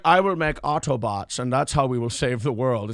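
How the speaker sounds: mock German-accented pronouncement; deadpan German-accented imitation. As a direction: parody him in a rough German accent. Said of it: "you give him a German accent".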